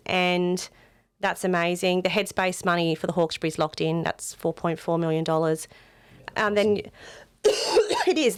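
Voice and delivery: croaky, strained voice; rough voice after a week outdoors; hoarse voice. Real, not acted. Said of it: "putting up with my croaky voice".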